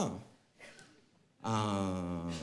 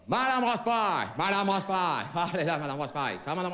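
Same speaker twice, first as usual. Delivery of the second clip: exaggerated politeness. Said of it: "mon père, il lui avait dit".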